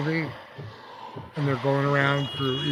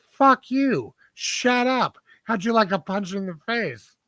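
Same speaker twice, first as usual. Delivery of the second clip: higher, louder mock outburst, snapping back; angry retort; 8 semitones higher, 4 dB louder than usual. Sister snapping at the girl who complained: mock angry yell. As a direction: fire it back like a furious moviegoer. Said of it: "And she goes".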